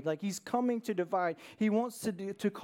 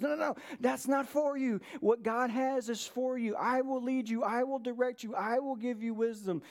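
Holy Spirit's voice; 4 semitones higher than usual. Acted. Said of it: "the Holy Spirit convicts us of righteousness".

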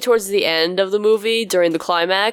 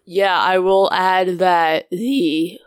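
voice cracking; much slower than usual. Real, not acted. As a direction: voice cracks mid-sentence. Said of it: "oh God, voice crack".

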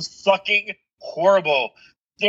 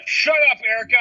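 put-on bossy four-year-old; 5 semitones higher, faster than usual. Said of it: "This is a four-year-old saying this".

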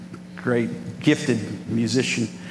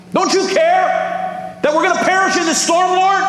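very high, louder hammed-up cry; mock panicked plea; 4 dB louder than usual. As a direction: play a frantic disciple begging for rescue. Acts out panicking disciples in storm.

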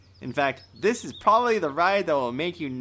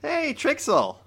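sly call; 13 semitones higher, 3 dB louder, slower than usual. Acted. Calling the drawl over.

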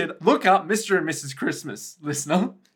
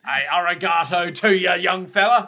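put-on Japanese accent; 6 dB louder than usual. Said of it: "This is my Japanese accent".

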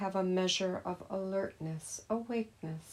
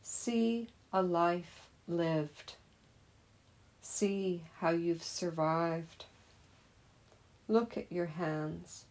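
measured poem reading with pauses between lines. Acted. Teacher reading a poem about hands to meditators, measured recital. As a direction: read the poem out to meditators, line by line. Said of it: "as I read the poem".

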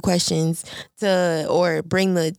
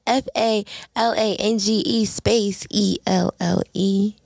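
spelled out slowly; slower than usual. Shown as a demonstration. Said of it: "you could follow me on YouTube".

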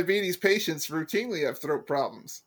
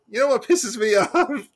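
self-parody; 6 semitones higher, 5 dB louder than usual. Retold or imitated. Mocking own catchphrase on tombstone.

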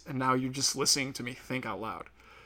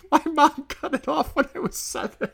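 mock high recruit voice; 3 dB louder than usual. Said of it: "And he's like".

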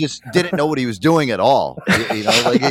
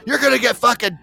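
higher mock dad yell, fading out; imitating dad yelling; 8 semitones higher than usual. Son imitating his dad yelling at the kids, higher mock yell. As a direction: shout at the kids then trail off. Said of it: "my dad used to yell at us".

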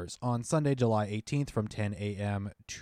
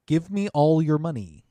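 sarcastic; 5 semitones higher, 8 dB louder than usual. Pretend. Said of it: "or as I like to call it".

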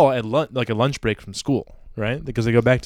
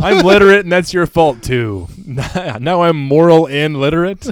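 high, loud hammed-up child boasting; mock indignant kid; 5 semitones higher, 8 dB louder than usual. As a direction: sulk loudly like a smug kid.

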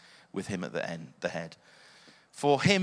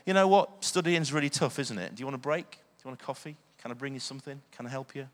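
reassuring; faster than usual. Retold or imitated. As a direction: gently coax a tired student. Kind words to a student.

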